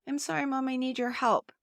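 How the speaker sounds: mildly whiny, apologetic plea to Mom; self-blaming child. Shown as a demonstration. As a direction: ask for help as if you're to blame. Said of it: "sounds as if something's wrong with the child".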